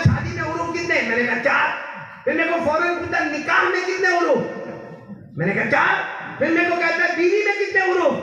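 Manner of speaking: retelling a rapid-fire quiz from the persistent man. Retold or imitated. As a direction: fire the questions back and forth at speed. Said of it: "कितना fast fast बोला".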